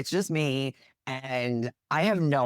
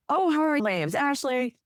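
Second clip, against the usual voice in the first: bright, much higher, eager hello to the cops; overly cheerful greeting; 12 semitones higher than usual. Retold or imitated. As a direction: play it sweet and innocent to the police. Cheerfully greeting police officers.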